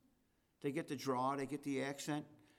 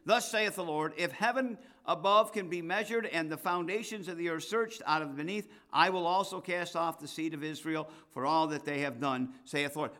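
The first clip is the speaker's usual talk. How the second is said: loud, measured King James reading; scripture reading; 4 dB louder than usual. Acted. Preacher reads the Lord's words out to his congregation, loud and solemn. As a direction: proclaim the verses to the church.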